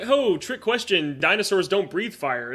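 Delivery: slow, smug know-it-all voice; drawn-out mock narrator. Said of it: "they were just like".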